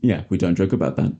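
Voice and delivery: flat, serious, low; dead serious, no smile; deadpan. Retold or imitated. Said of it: "he just went deadpan".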